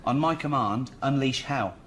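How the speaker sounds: Gladiator film line. Acted. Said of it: "You seen the film Gladiator?".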